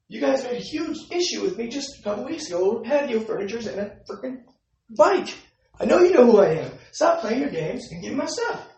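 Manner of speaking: retold anger. Tenant insisting to the office man, heated and loud. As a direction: insist hard that he knows you. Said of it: "I'm getting upset, of course".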